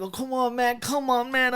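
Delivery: high, bro-ish bad Irish accent; mocking bad Irish accent. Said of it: "the accent really did not".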